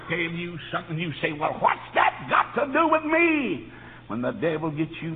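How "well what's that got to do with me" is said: challenging question. Acted. Acts out a listener's challenge.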